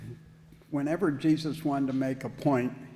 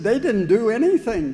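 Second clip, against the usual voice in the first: emphatic reply; 7 semitones higher, 9 dB louder than usual. Retold or imitated. Angel's punchline setup.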